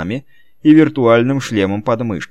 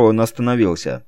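ordinary delivery

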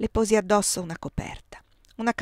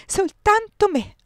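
higher, louder, slow soltanto me; drawn-out anguished repeat; 13 semitones higher, 9 dB louder, slower than usual. A narrator's reading. Repeated frantic plea.

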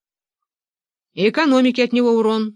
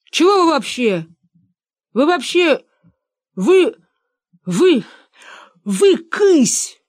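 high and loud, stammering vы, вы before the insult; frightened shout; 6 semitones higher, 5 dB louder, slower than usual. A narrator's reading. Benedikt screaming at his father-in-law, frightened of himself. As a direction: blurt it out in a scared stammering yell. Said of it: "крикнул Бенедикт, сам пугаясь".

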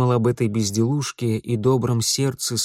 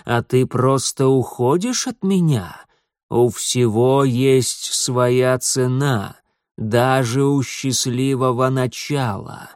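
put-on slow, menacing old stranger; ominous old man; slower than usual. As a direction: weigh each word of the price slowly.

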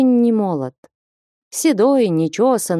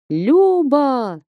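shouting; 6 semitones higher than usual. A narrator's reading. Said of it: "и заорал".

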